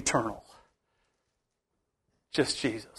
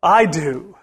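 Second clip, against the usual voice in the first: Jesus rebuking; 2 semitones higher, 3 dB louder, slower than usual. Retold or imitated. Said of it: "He said to the Pharisees".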